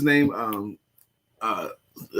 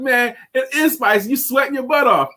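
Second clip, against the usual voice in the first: teasing laugh; 11 semitones higher than usual. Retold or imitated. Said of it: "I said".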